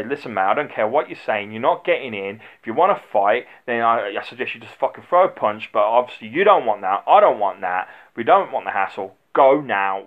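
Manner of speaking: loud, firm warning to a pushy customer; firm doorman. Retold or imitated. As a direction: stand your ground and tell him straight, loudly. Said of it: "you just stand firm".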